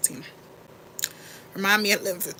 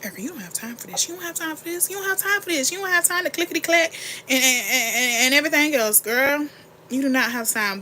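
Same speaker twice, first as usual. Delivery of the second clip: scolding herself; 5 semitones higher than usual. Pretend. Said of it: "scolding herself by name".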